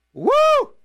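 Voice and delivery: a soaring wrestler's woo, then a big call; Ric Flair. Retold or imitated. DJ imitating a wrestler's woo for listeners. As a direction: hype it like a pro wrestler on the mic. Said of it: "that was my Ric Flair imitation".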